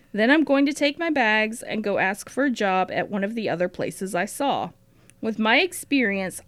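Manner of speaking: diary reading. Acted. Host reads Matilda's diary entry aloud to her co-host, lightly voiced and earnest. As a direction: read the entry as the earnest young sister.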